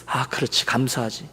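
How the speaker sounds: very soft, low musing to oneself; imitated quiet realisation; dawning thought. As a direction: think it aloud under your voice. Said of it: "그러면서 드는 생각이".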